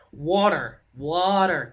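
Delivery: imitated American "water" with a voiced r ending; American-style "water", r sounded at the end; American accent. Shown as a demonstration. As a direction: mimic an American asking for water. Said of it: "That's how they say it".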